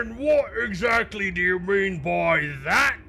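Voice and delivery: high, put-on dwarf voice; dwarf's voice. Tumbleweed asks what they mean, mimicking a dwarf's voice. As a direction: challenge them as a dwarf, pitched well up. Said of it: "he says in a dwarf's voice".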